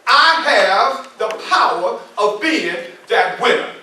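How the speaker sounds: call to repeat. Shown as a demonstration. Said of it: "Can everybody repeat after me?".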